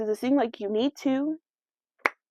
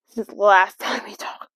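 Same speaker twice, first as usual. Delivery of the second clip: laughing; 4 semitones lower than usual. Real, not acted. Laughing at own inactivity.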